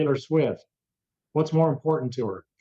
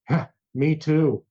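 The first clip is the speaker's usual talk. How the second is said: put-on British accent; slower than usual. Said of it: "I hear a British accent behind me go".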